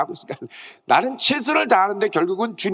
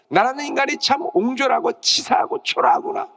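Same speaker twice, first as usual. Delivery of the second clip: lament; 6 semitones higher than usual. Acted. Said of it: "베드로는 심하게 통곡하며".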